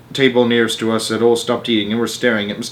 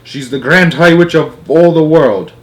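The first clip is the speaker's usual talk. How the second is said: grandmother voice; 5 semitones higher, 7 dB louder than usual. Acted. Grandmother reveals witch.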